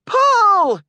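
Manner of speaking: very high, loud drawn-out command; shouted order. A narrator's reading. Arthur ordering skaters to tug the rope, shouted order. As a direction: shout it for everyone to heave. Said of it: "ordered Arthur".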